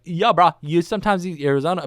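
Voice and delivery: mock bro pep talk to himself; inner voice. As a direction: pump yourself up like a bro. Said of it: "And then I was like".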